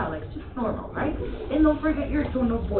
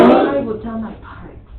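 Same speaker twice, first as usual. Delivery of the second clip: loud, projected declaration; exaggerated intonation; 11 dB louder than usual. Shown as a demonstration. Teacher models for the class, loud exaggerated delivery. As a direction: project it boldly to the whole room. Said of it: "I want you to exaggerate".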